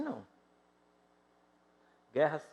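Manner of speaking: usual speaking voice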